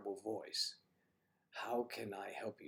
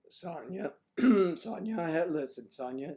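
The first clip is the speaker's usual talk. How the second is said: loud, high call across the room; 7 semitones higher, 10 dB louder than usual. Real, not acted. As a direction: call her name out loud to get her attention. Calling out to Sonya on stream.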